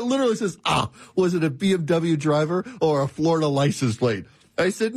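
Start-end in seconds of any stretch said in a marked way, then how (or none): 0.6-4.2 light imitation of a male Australian accent; quoting the AI in a touch of Australian accent; mild mock Australian male accent. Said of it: "this male Australian accent".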